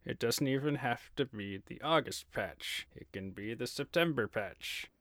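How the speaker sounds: lightly theatrical, slow stage delivery; a hint of a stage actor declaiming; thespian voice. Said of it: "Use your thespian voice".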